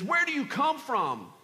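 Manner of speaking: harsh questioning. Acted. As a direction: question them sternly, as a stranger. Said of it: "he spoke harshly to them".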